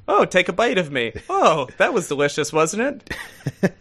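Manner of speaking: talking pig with a hammed-up German accent; badly faked German accent; poor German accent. Talking pig asking to be eaten, in a poor German accent. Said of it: "that wasn't a great German accent".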